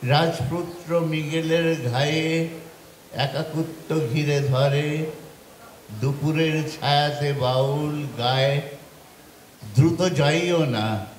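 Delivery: lilting verse recital, falling at stanza ends; poetry recitation. Acted. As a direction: recite the poem with pauses after each line. Recites second poem. (ছন্দে ছন্দে কবিতা আবৃত্তি)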